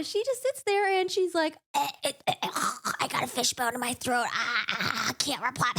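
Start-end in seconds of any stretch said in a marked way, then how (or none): 1.7-5.7 strained fake choke with a whispered gasp; hammed-up fake throat trouble; mock choking. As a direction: play the fishbone excuse badly on purpose. Feyre mocked as choking up.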